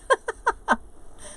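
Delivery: high, airy giggle; real little high-pitched laugh. Real, not acted. Laughing about asking friends what words mean, high giggle.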